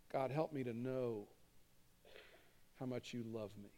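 hushed prayer after a held breath; quiet prayer. Shown as a demonstration. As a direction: murmur the prayer gently to God. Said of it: "pray this prayer".

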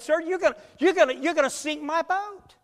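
put-on high-pitched plea of a little boy; mock crying. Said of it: "began to cry and said".

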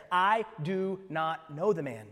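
slow, deliberate oath; sworn denial. Acted. Peter swearing to the bystanders, slow, deliberate denial. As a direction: space out each word as if swearing. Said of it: "to invoke a curse on himself".

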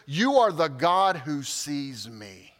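low, slow, awed naming of God; hushed-in-awe quote, drawn out; reverent. Retold or imitated. Hagar names God in retold story.

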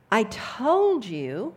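frustrated. Acted. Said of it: "hear the frustration in his voice".

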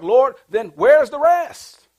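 high, loud, slow cry to the Lord; exasperated plea. Retold or imitated. Preacher retelling his plea to God, loud and high. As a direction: plead with God, puzzled and loud. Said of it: "I'm like".

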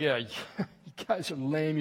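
slow, scornful jeer with a laugh; mocking taunt. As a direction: sneer at them like a tough commando. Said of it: "He's just mocking them".

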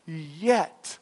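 "yet" set apart after a pause; stress on yet. Real, not acted. Preacher on what Mary did not understand, stressing "yet". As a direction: land on "yet" as its own drawn-out word. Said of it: "I emphasize the word yet".

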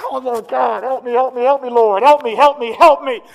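voicing the possessed man crying out for help; desperate plea.

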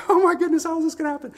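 high, loud mock astonishment; hammed-up baby marvelling in a squeal; amazed baby. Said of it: "she's like".

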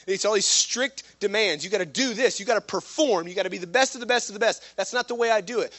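impassioned, insistent pulpit voice; forceful preaching. Real, not acted. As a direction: preach it hard, piling up phrase on phrase.

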